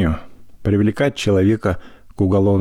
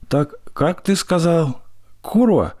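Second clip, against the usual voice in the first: indignant threat; 5 semitones higher than usual. A narrator's reading. Mother-in-law indignant, threatening.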